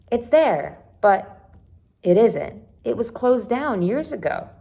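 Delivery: lightly voiced girl, rising high on amazing; excited Caroline. Caroline tells Sam about the home, lightly voiced and pleased. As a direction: share the good news brightly.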